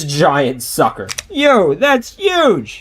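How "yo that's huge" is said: slowed dramatic reaction. Acted.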